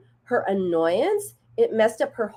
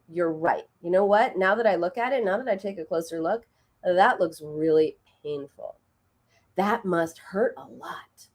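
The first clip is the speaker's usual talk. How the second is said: validating. Retold or imitated. Mom acknowledging daughter's painful scrape, gently validating. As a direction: take the child's hurt seriously, slowing at the end. Mother validating child's pain after dismissing.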